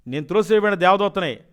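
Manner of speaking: retold demon's threat; demon speaking. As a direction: announce yourself as a fallen angel, loud. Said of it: "అన్నాడు".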